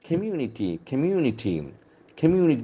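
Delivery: Community stressed on MU, com-MU-ni-ty; second-syllable stress. Shown as a demonstration. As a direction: put the accent on MU in Community. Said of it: "The accent falls on the second syllable".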